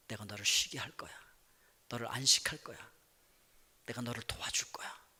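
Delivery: soft, low, hushed reassurance, sinking to a whisper; the Lord consoles his tired child in a low soft murmur; tender comforting Lord. Pretend. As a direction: comfort the weary one gently, almost whispering. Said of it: "이렇게 말씀하실 줄로 믿습니다".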